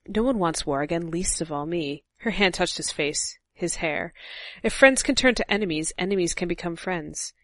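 reading the novel aloud with Cersei's lines in a light seductive-then-angry voice; lightly acted Cersei scene reading; dramatic book reading. A narrator's reading. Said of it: "That was really good, but I'm not gonna do voices".

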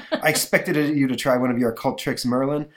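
lightly voiced gloating gargoyle; a hint of a sneering monster; villain gargoyle. Gargoyle taunts Mark.

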